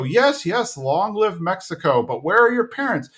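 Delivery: a high fed-up sigh of a question; exasperated Peggy. Retold or imitated. Peggy to the stray girl, high and exasperated.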